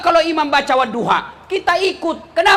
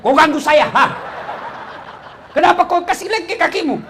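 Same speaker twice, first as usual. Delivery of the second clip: menegur kesal; 3 semitones higher than usual. Acted. Acted scolding after the prayer.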